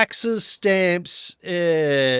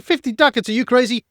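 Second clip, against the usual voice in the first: shocked outrage; 7 semitones higher, 4 dB louder, faster than usual. Acted. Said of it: "He's like".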